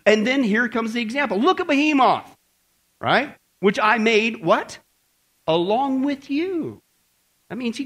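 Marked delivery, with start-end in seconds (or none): 1.4-6.8 higher, booming, slow voice of God; thundering God. Acted. God rebuking Job from the storm, booming and slow. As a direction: challenge Job as an offended almighty.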